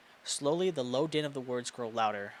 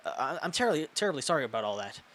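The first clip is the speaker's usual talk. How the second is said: trembling apology. Acted. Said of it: "her troubled words trembling".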